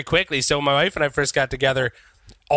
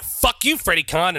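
mild mock anger; mock malice; 3 semitones higher than usual. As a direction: playfully act out a grudge. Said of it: "there's malice in Vape Lord's heart".

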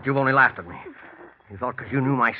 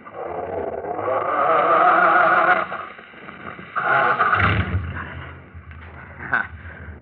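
maniacal laugh; 2 semitones higher than usual. Acted. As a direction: laugh like a madman at his triumph. Killer alone after the crash.

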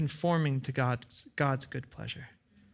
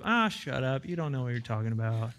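scoffing fool; 5 semitones lower than usual. Retold or imitated. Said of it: "stand in the midst of that maze and go".

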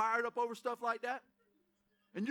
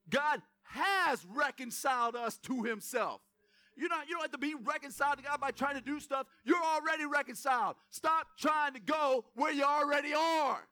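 preaching shout. Real, not acted. Preaching at full force.

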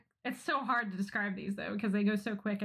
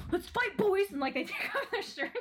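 mock challenge shout; 8 semitones higher than usual. Jock calling out the boys, mock shout. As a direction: yell it like a cocky jock.

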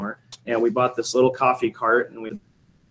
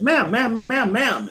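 raised high call to get her attention; 9 semitones higher, slower than usual. Retold or imitated. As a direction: call across the hallway to stop her. Calling out to approaching woman.

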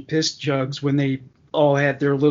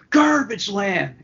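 imitating Bubbles; 5 semitones higher, slower than usual. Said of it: "Bubbles is like".

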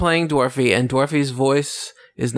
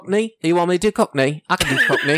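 hammed-up Cockney, pitched up at first; Cockney accent; 4 semitones higher, faster than usual. Shown as a demonstration. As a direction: show off a mock Cockney accent. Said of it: "done a Cockney style accent for him".

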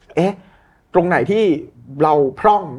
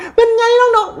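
much higher, slow, jokey-strained greeting; a stern boss suddenly faking chumminess; forced friendly boss; 5 dB louder, slower than usual. Retold or imitated. Stiff boss greets staff with awkward cheer. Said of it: "อยู่ดีเดินมาแล้ว".

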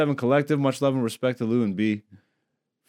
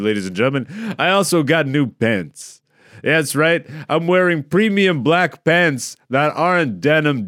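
hype announcer voice. Pretend. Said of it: "I don't know why I went with that voice".

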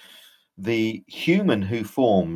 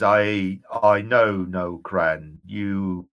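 ghostly general; 3 semitones lower than usual. Acted. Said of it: "And he says".

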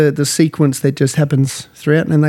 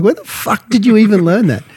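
mocking wife; 8 semitones higher than usual. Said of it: "she's just looking at me like".

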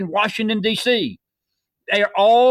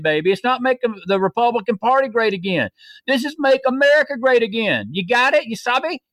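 taunting high cheer; 4 semitones higher than usual. Real, not acted. Host taunting with MAGA cheer.

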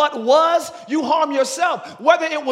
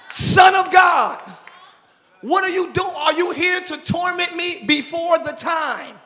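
demon crying out; 3 semitones higher, slower than usual. Acted. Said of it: "Demons know who God is".

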